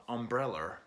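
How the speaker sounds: "Umbrella" with a Boston r on the end; Boston accent. Retold or imitated. Imitating father's pronunciation of the song title, Boston accent. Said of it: "how my father, Boston accent, pronounces umbrella".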